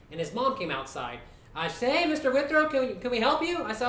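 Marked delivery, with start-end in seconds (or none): 1.9-3.6 high, raised mom voice; imitated neighbour mom. Mom comes outside to question neighbour, high imitated voice. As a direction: pitch it up as the concerned mother.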